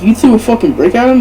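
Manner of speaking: incredulous question. Retold or imitated. Stepbrother questioning him about the brick, mock incredulous. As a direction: imitate a quick, startled comeback. Stepbrother's shocked reply in retold argument.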